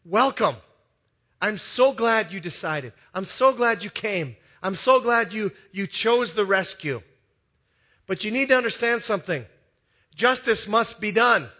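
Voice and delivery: a hint of a gentle saviour, unhurried; Jesus welcoming. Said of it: "And he says".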